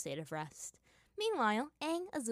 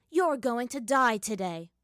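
slow menacing threat; 4 semitones higher, 9 dB louder, slower than usual. Acted. Villain threatens.

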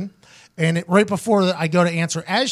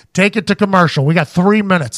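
louder, lightly voiced producer's cue; firm imitated control-room instruction; producer in earpiece; 5 dB louder than usual. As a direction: imitate a director giving orders over a headset. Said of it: "the guy in my ear goes".

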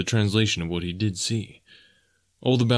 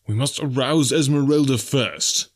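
urgent; 4 semitones higher than usual. A narrator's reading. Clayton takes charge urgently.

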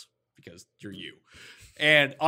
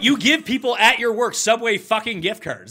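exasperated berating; 3 semitones higher, 6 dB louder than usual. Real, not acted. Berating co-host over cheap gifts.

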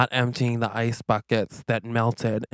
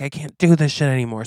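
quick, mildly raised acted outburst; making a scene; 3 semitones higher, 4 dB louder, faster than usual. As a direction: rush out a fed-up quitting line. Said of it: "So he makes a big scene".

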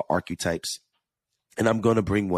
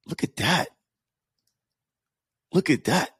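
impressed; 10 semitones higher than usual. Real, not acted. Reacting to review, weight loss.

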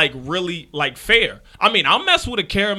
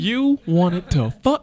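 Jamie Foxx impression; slower than usual. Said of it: "I say it like Jamie Foxx".

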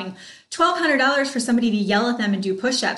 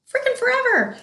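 emphatic. Real, not acted. Emphatic sales point.

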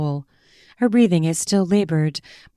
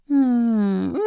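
sweet laugh; 8 semitones higher than usual. A narrator's reading. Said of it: "she says sweetly".

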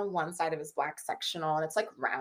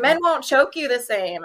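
quoting her; 8 semitones higher, 10 dB louder than usual. Retold or imitated. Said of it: "She's like".

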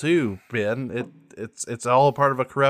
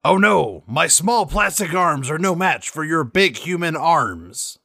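Deitysaurus Flex; 3 semitones higher than usual. Acted. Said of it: "Deitysaurus Flex".

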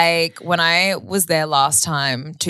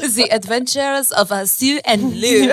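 mock title announcer; 6 semitones higher, slower than usual.

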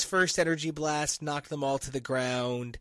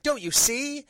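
much higher and louder, pleading; hammed-up exasperation; 10 semitones higher, 6 dB louder than usual. Ghost Rider begging the team to get it, high and loud. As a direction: squeal it like the answer is obvious.

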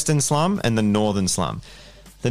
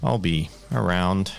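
noir detective; 3 semitones lower, 3 dB quieter than usual. Acted. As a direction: play a gumshoe, low and unhurried. GM voicing Chessex, noir-ish info broker.

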